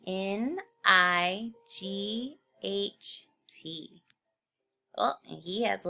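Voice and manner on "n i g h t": slow letter-by-letter "N I G H T"; correct spelling. Shown as a demonstration. Teacher giving the class the right spelling, slowly. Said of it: "Night is spelled".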